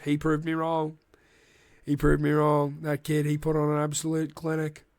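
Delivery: hint of a presidential impression; Donald Trump. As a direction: lightly slip into an American politician's cadence. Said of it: "why do I sound like Donald Trump?".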